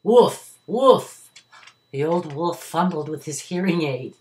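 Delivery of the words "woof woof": faraway call. A narrator's reading. Boy's call heard from afar.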